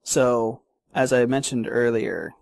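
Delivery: talking while chewing gum; words around a wad of gum. Real, not acted. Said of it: "talk and chew bubblegum at the same time".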